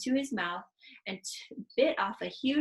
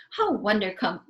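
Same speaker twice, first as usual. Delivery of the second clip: louder delighted exclamation; delighted cry; 7 dB louder than usual. Acted. Giant delighted by Sophie's praise, louder cry. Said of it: "cried the B F".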